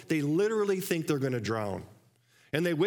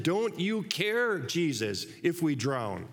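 retold plea; slower than usual. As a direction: start as a drawn-out pleading cry, end plain. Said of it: "Remember, they said".

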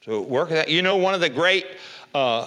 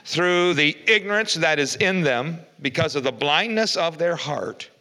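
louder, raised preaching read of the text; scripture reading; 3 semitones higher, 3 dB louder than usual. Acted. Preacher reading Ephesians aloud to the church, proclaiming.

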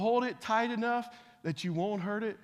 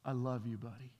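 tender; 4 semitones lower than usual. Retold or imitated.

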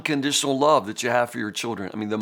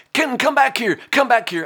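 put-on higher, louder call after a runaway child; calling child back; 11 semitones higher, 6 dB louder than usual. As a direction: call the toddler back sharply.

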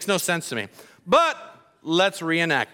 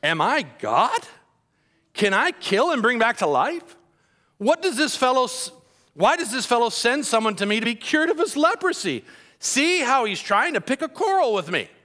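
upset king; 4 semitones higher than usual. Retold or imitated. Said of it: "he tore his robes and said".

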